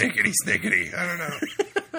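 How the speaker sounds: high, loud laughing snicker; laughing squeal. Pretend. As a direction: giggle it out high. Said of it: "what else does Wolverine say".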